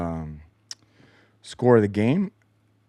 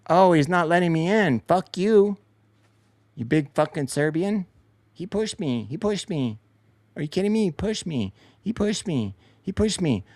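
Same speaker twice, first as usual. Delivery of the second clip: higher, whiny complaining voice; mock whining flopper; 7 semitones higher than usual. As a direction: whimper about being pushed, mocking him. Mocking a flopping opponent.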